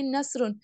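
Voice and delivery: نصرون with a thin, whistled s; light sibilant s in نصرون; whistling seen. Shown as a demonstration. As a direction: say "nasroon" with a hissing thin s. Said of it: "سین کی سیٹی کی آواز نکالیے".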